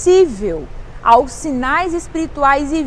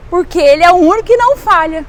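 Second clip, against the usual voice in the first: fast run through "Porque ele é o único que não falha"; quick emphatic declaration; 2 semitones higher, 4 dB louder, faster than usual. Real, not acted. Preacher explains God never fails, quick emphatic declaration. First take of repeated climactic line.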